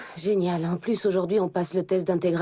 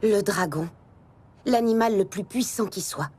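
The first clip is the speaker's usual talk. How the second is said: story narration. A narrator's reading. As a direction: narrate it like an epic intro. Narration opening.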